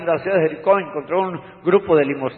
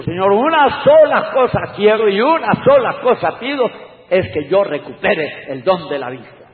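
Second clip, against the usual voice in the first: pleading beggar; 7 semitones higher, 6 dB louder than usual. Retold or imitated. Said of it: "Él dijo".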